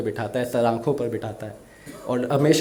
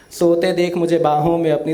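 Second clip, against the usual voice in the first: first take of "सोते देख मुझे बाहों में अपनी" higher and louder, reaching out; raised recital; 4 semitones higher, 5 dB louder than usual. Shown as a demonstration. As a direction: call the line out with full feeling. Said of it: "किस तरीके से बोलती है". (ऊँची आवाज़ में भावुक पंक्ति)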